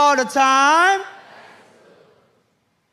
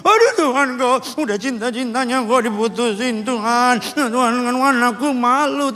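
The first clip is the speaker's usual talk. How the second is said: mock whining. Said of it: "ketahuan pacarnya selingkuh".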